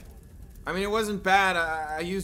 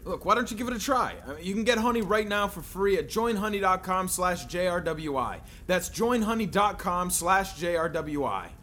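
ad read; 2 semitones higher than usual. Acted. Sponsor read inside the sketch.

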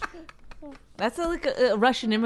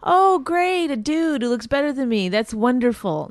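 sarcastic gushing that soon levels off; mock delight; 2 semitones higher than usual. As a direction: pretend to be thrilled for a rival. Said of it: "do you really think girls are like".

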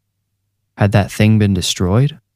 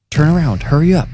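desperate shout; 8 semitones higher than usual. A narrator's reading. Sadiq shouting orders over the yard intercom, high and desperate. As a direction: call out urgently in a raised pitch. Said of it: "he shouted".

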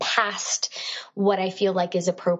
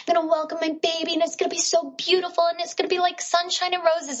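dreamy excitement; 8 semitones higher than usual. Retold or imitated. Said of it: "And I'm thinking".

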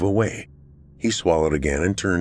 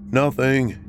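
raised voice calling out; called back; 6 semitones higher than usual. A narrator's reading. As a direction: call it to the other room. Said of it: "he called back to Tolliver".

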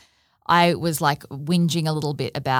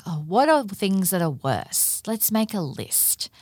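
sarcastic mock; 3 semitones higher, slower than usual. Mocking a silver-lining friend.

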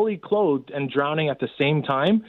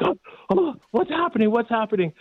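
much higher, imitating a frantic girl; panicked girl; 7 semitones higher than usual. Drowning girl bewildered by her rescuer, imitated high panic. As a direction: squeal it out like a confused kid thrashing in water.

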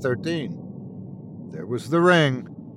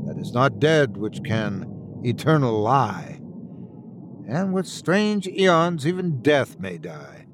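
ominous prophecy reading; 3 semitones higher than usual. Acted. Alistair reads the manuscript aloud.

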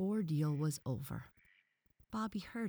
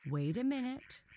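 higher, gently checking the others; gentler; 8 semitones higher than usual. A narrator's reading. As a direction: ease off and call a gentle halt. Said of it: "said the professor more gently".

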